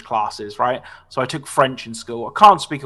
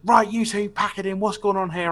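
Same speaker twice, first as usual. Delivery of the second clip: lightly voiced teacher, pitched higher; mock telling-off in a raised pitch; imitated stern teacher; 6 semitones higher than usual. Teacher walking in on a fight, lightly imitated scolding.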